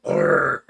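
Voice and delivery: low, drawn-out growl of reply; imitated growl. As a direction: growl it out as the bothered son. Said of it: "And you're like".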